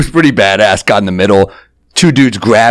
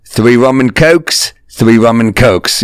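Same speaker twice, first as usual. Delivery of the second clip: ordering drinks; slower than usual. Retold or imitated. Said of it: "throws a hundred on".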